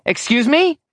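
high, disbelieving question; stunned doctor. Acted. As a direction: jaw dropped, ask it high.

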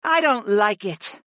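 slow, high-voiced groan of unease. A narrator's reading. Mira Lee dislikes the looming entity, groaning. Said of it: "Mira Lee groaned".

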